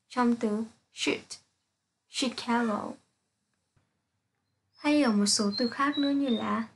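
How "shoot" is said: "shoot" said slowly with a clear sh; slow sh demo. Shown as a demonstration. Teacher modelling the sh in "shoot" for students. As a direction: stretch "shoot" with a long crisp sh. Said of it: "được phát âm là sh".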